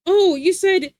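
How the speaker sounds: high, loud exaggerated gotcha; mocking onlookers. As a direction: imitate people teasing someone's pronunciation. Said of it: "They're like".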